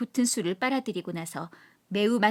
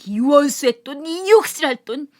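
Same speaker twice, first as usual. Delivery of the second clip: loud, higher cursing of the money; bitter angry cry; 4 semitones higher, 9 dB louder than usual. Acted. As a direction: hurl the words with the coins. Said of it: "팔매질을 친다". (돈을 집어던지며 원망스럽게 외침)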